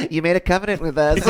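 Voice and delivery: quick, high, mock child whine; imitating Israel as a whiny child; whiny kid. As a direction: whine like a kid holding you to a promise. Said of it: "sound just as whiny".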